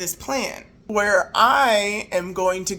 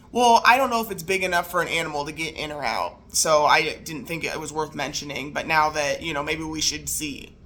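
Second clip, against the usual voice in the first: sheepish husband; 6 semitones lower than usual. Retold or imitated. Husband admitting another hole to his wife, low sheepish excuse. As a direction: lower voice, rambling excuse.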